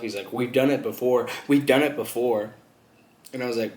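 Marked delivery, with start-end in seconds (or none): 0.3-2.5 mildly defensive retort, imitating a customer; a touch firmer, defending yourself. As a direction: insist on it, said twice. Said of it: "he instantly defended himself".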